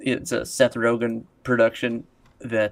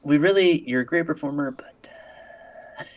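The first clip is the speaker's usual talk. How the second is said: mock producer voice; 3 semitones higher than usual. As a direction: sweet-talk like a smarmy producer. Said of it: "I'm like".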